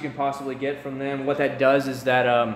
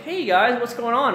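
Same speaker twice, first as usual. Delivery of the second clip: bright, much higher YouTuber hello; fake cheerful greeting; 9 semitones higher than usual. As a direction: put on forced cheer for the camera. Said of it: "act all cheerful and happy".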